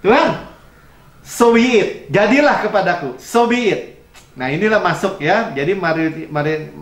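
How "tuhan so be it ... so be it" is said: Mary's surrender. Retold or imitated. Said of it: "good opinion itu".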